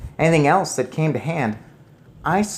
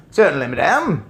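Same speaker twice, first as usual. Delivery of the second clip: louder, polite doorman; 3 semitones higher, 6 dB louder than usual. Acted. Doorman answering the grandmother, polite. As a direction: say it crisply. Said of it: "he said".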